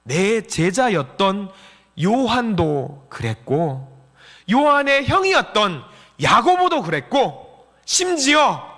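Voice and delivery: slow, building consolation; the Lord consoling. Acted. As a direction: list each one deliberately, pitch climbing. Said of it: "주님은 우리를 위로하려고 하십니다".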